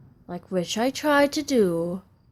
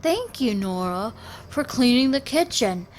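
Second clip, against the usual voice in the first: mock grateful dad; 3 semitones higher than usual. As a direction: act out the thanks she wants to hear. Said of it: "then I want him to say".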